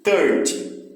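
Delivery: thirty with a weak final syllable; stress at the start. Shown as a demonstration. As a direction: hit thir, let ty fall away. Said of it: "O final ele tem menos força".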